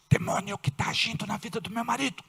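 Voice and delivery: casting out the demon, rising in force; rebuking prayer. Shown as a demonstration. Wife rebuking the demon in her husband, building command. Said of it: "ora baixinho e diz".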